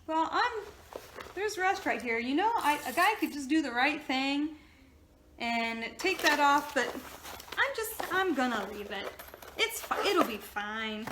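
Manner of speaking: mock the easygoing car guy, pitch up; lightly voiced laid-back mechanic; imitating the car guy. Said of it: "he'll be like".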